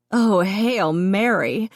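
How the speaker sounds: gasping it out through laughter; breathless laughing exclamation; wheezing laugh. A narrator's reading. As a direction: wheeze with barely held giggles. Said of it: "Colleen wheezed".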